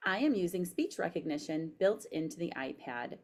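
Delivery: careful dictation, spoken punctuation; dictating. Shown as a demonstration. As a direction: read it clearly to voice typing. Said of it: "So I'm pushing the microphone".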